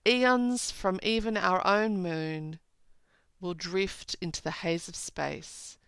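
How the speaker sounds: slow, measured poem recital; deliberate reading of verse. Acted. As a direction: read the lines with weight. Reads poem lines aloud.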